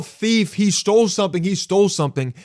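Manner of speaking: high-pitched mock yell; high, urgent mock alarm call. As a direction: imitate someone crying thief, not at full volume. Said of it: "if you yell".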